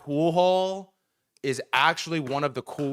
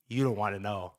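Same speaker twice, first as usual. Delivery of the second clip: low, quiet menace; imitating a tough guy's ominous reply; ominous stare-down; 6 semitones lower, 6 dB quieter than usual. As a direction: drop it low, like a grim warning. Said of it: "dead in my soul".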